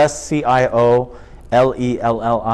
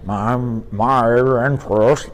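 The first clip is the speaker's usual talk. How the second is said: slow, halting first try at Bogart; bad Bogart attempt; slower than usual. Shown as a demonstration. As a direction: fumble the Bogart voice slowly. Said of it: "and I'd go".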